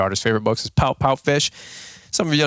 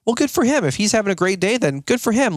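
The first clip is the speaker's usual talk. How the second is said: much higher, sing-song good for him; mock sarcastic; 9 semitones higher than usual. A grumpy listener mocking someone's good mood, sarcastic. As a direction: scoff at the happy guy.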